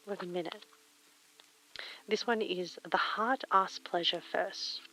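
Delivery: normal talking voice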